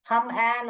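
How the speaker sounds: short "uh" in हम, then एन apart; wrong short-U reading. Shown as a demonstration. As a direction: sound out human wrongly as हम एन. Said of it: "आ करके नहीं बोलते हैं".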